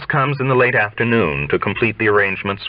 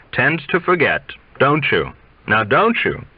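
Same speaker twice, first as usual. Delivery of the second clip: schoolteacher's tone; 5 semitones higher than usual. Acted. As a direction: chide them like a sly old teacher. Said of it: "a schoolteacher's tone, scolding yet sly".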